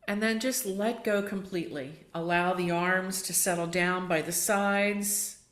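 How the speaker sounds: guided relaxation. Acted. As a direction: ease them into heaviness, unhurried.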